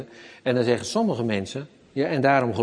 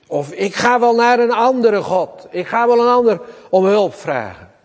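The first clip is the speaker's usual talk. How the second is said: loud, higher, bitter outburst; David imagined quitting on God; giving up in anger; 6 semitones higher, 7 dB louder than usual. Retold or imitated. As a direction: throw it all down in frustration. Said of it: "verwachten dat David zegt".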